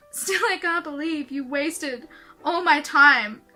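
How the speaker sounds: reading angsty lyrics aloud; embarrassed reading aloud. Acted. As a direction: read your teen song aloud, cringing. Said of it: "read out to you guys one of my angsty songs".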